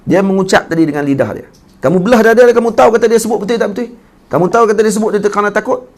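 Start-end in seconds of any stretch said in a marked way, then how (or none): 1.8-5.9 higher, fast, pressing reproach; angry rebuke. Retold or imitated. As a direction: hammer the question at him. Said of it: "Marah betul".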